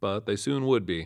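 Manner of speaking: ordinary delivery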